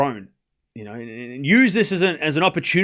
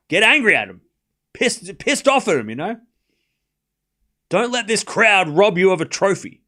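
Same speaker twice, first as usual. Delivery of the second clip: imagined coach firing her up; 4 semitones higher than usual. Retold or imitated. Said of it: "I'd be like".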